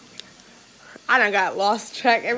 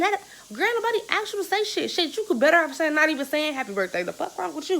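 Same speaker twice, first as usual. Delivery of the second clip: mock sass; 7 semitones higher than usual. Ranting back at the driver.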